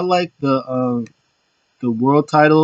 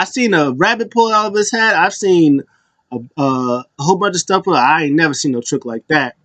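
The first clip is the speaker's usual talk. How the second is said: R-Truth; 3 semitones higher than usual. Retold or imitated. Acting out R-Truth marvelling at trick.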